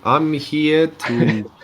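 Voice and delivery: slow, drawn-out mock villain voice; Bowser voice. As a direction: ham up a slow Bowser boast. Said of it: "he's like".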